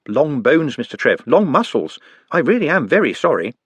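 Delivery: put-on light, polite young goblin voice; gently earnest helper; a lightly voiced polite goblin; Nutt's voice. Nutt voiced in read story.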